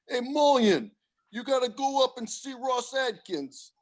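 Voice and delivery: high, loud imitated holler; imitated coordinator's shout, drawn out at the end; calling out. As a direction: holler it like a coach summoning a player.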